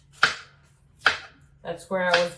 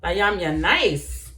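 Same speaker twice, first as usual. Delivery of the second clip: imitating grandmother; slower than usual. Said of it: "she used to say".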